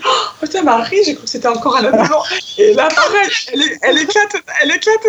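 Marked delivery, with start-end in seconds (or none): 0.1-2.2 higher, fast, half laughing relief; excited relief. Retold or imitated. To her friend Marie on the phone, blurting out relief fast.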